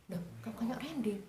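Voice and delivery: hushed, breathless whisper; surprised whisper. Retold or imitated. Mother spotting the boyfriend, whispering in surprise. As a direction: whisper it in shock.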